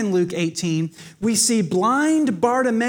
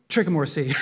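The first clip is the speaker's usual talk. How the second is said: laughing at slip; 6 semitones lower, faster than usual. Real, not acted.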